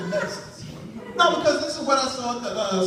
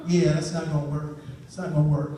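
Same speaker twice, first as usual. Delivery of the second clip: much lower, flat rejection; dad dismissing the Just Do It slogan; deep dismissive dad; 8 semitones lower than usual. Acted. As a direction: shut the idea down.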